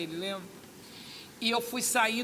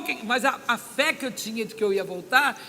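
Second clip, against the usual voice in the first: ordinary delivery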